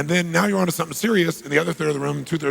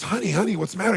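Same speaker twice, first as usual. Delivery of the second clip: higher-pitched, anxious coaxing; concerned father; 6 semitones higher, faster than usual. Retold or imitated. Father asks his crying daughter, acted concern. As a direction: play a dad fussing over his child.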